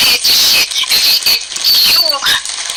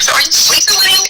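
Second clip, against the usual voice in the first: mock question; 7 semitones higher than usual. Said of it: "I was like".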